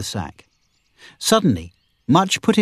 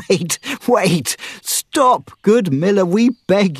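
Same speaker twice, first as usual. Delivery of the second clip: urgent begging; 8 semitones higher, slower than usual. A narrator's reading. Robin begging the miller to stop, high and urgent. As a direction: beg him to stop hitting, urgently.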